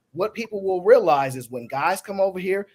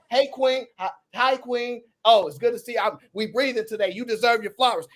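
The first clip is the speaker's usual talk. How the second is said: friendly street greeting. Retold or imitated. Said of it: "that's what he would be doing".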